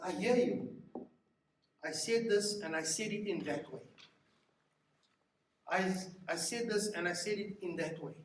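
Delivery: sincere acknowledgement. Shown as a demonstration.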